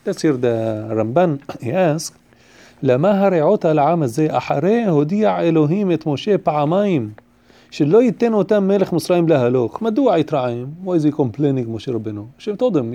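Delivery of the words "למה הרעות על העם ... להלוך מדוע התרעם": quick, louder Hebrew recitation; reading text aloud. Real, not acted. Teacher quoting Ramban's question to the class, brisk text reading. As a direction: read the citation out briskly and firmly.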